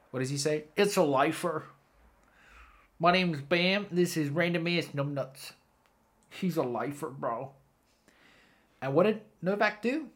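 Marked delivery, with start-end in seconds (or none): 0.7-7.5 lightly voiced Bam. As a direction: toss it off like a cocky skater bro, lightly imitated. Voicing Bam's dismissive reply.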